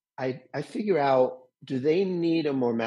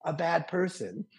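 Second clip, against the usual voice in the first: encouraging coach; 3 semitones higher than usual. Retold or imitated. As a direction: cheer them on gently, a bit higher. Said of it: "encouraging inner life coach voice".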